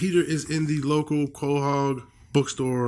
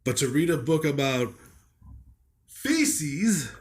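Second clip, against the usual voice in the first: lightly voiced pompous old man; put-on elderly reviewer voice. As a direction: play an appalled elderly book critic. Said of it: "Is this guy like a eighty-year-old".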